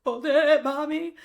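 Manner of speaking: high little-kid imitation; small child's voice. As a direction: answer like a young boy, pitched well up. Mother voices her small son answering.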